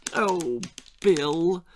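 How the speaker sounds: a touch of a weary sigh; lightly voiced anxious mother; mother sighing over her son. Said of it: "sighed his poor mother".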